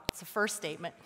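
ordinary delivery

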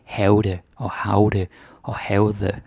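"havde" three ways, wrongly sounding out the silent letters; slow, stressed wrong versions of "havde"; wrong pronunciations. Shown as a demonstration. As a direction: mispronounce "havde" with an extra consonant before the d. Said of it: "You don't say".

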